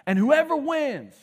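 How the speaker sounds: hammed-up booming Goliath challenge; booming giant. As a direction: boom the challenge across the valley. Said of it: "this booming voice from across the valley".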